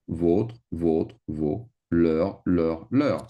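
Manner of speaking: "votre" and "leur" repeated as a teacher's model, final S silent; pronunciation drill. Shown as a demonstration. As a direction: say "vos, leur" without the S. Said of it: "Same pronunciation".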